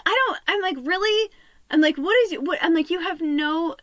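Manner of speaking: high, loud indignant questions; incredulous argument. Retold or imitated. Arguing with her partner, loud incredulous retorts. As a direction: fire back in disbelief.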